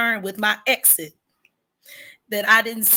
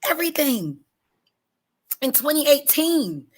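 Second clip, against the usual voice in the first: holding back tears; 6 semitones higher than usual. Real, not acted. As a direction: fight the tears on every word. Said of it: "I'm trying not to cry".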